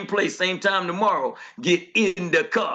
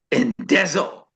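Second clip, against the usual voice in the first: ordinary talk, nothing marked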